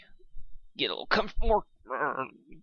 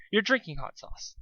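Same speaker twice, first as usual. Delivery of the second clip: Pinkie Pie voice; 8 semitones higher than usual. Acted. Pinkie voice again.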